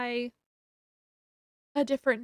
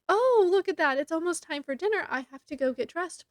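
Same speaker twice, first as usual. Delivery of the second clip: bright excuse; 4 semitones higher, 3 dB louder than usual. Retold or imitated. Making an excuse to leave.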